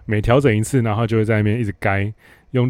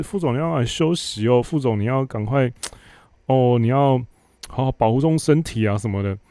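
butter up the boss in a simpering voice; fawning flattery; 3 semitones higher than usual. Retold or imitated. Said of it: "就在那边拍马屁". (阿谀奉承的假关心语气)

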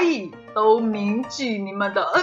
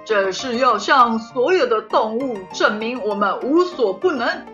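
boastful king; 4 dB louder than usual. Acted. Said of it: "白蚁王回答道".

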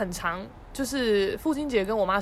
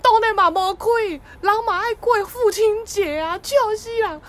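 high and loud through laughter; laughing; 12 semitones higher, 9 dB louder than usual. Retold or imitated. Teasing dad about the closed shop, laughing. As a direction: crack up while you answer. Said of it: "我就超好笑".

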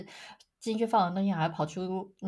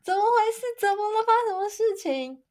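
high, loud mock panic; dramatized inner freak-out, pitched way up; alarmed; 13 semitones higher, 6 dB louder than usual. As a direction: exclaim like a startled, bewildered mother. Mother's retold alarmed inner reaction.

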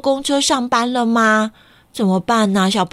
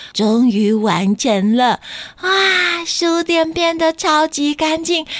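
happy kitten voice; 5 semitones higher, slower than usual. Acted. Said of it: "听到小黑猫说".

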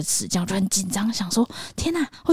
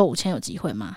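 softer, lower, timid ask; meek repeat; 4 semitones lower, 6 dB quieter than usual. Retold or imitated. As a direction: shrink as you ask again. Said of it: "我就说".

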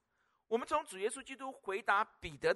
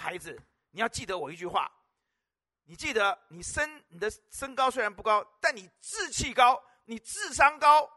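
rising exhortation; 2 semitones higher, 8 dB louder than usual. Retold or imitated. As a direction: grow from gentle advice to a ringing declaration. Retold encouragement to young sister.

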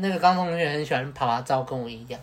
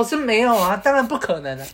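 loud retort; 7 semitones higher, 5 dB louder than usual. Retold or imitated. Friend answering defensively.

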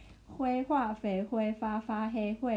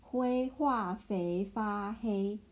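slow model reading; slower than usual. Shown as a demonstration. Teacher slowly models the Chinese tongue twister for the learner. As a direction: say each syllable of the tongue twister slowly and evenly.

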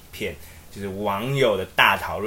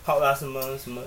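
mock clingy plea; 2 semitones higher, 4 dB quieter than usual. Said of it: "慌到一个不行".

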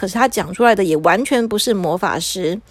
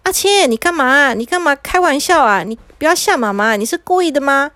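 mildly anxious, slightly raised pitch; a touch of motherly alarm; nervous mother; 4 semitones higher than usual. Acted. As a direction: fret at your child with worried questions. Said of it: "妈妈很紧张".

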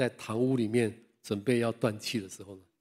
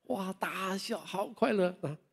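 laughing; 8 semitones higher, 5 dB quieter, slower than usual. Retold or imitated. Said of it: "他就是死得很快乐".

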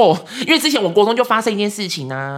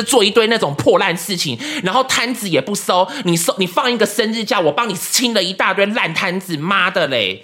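mock rant; 3 semitones higher than usual. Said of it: "用张婷婷的方式讲话".

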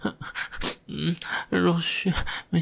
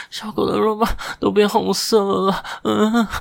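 puppy voice; 4 dB louder than usual. Acted. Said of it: "小狗说".

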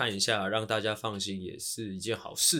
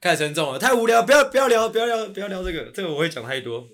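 loud; 8 semitones higher, 11 dB louder than usual. Real, not acted. Refuses topic loudly, joking.

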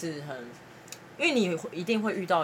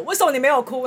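put-on loud, high crying-drunk shout; drunk yell; 9 semitones higher, 11 dB louder than usual. Drunk friend yelling at narrator for not crying, loud shout. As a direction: yell it at your friend through tears. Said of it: "然后就对着我吼说".

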